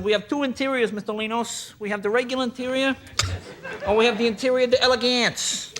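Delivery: hint of a showroom pitch; Cadillac salesman. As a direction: present the options with mock grandeur. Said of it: "Remember the guy said".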